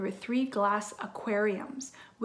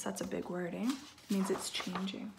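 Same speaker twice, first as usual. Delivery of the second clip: whispering; 6 dB quieter than usual. Real, not acted. Soft explanation to child.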